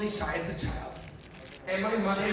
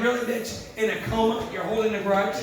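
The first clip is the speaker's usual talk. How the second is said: raised-pitch playful disbelief; mock indignation; 2 semitones higher, 3 dB louder than usual. Daughter to mother in a coma, mock indignation. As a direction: call her out, half-laughing. Teasing her comatose mother over grudge.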